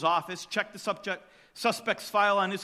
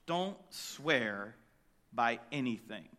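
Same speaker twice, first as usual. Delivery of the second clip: "Don't swear by anything" dropped low and soft; soft solemn command; quiet; 9 semitones lower, 7 dB quieter, slower than usual. Shown as a demonstration. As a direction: hush it down, grave and low. Preacher restates Jesus' command.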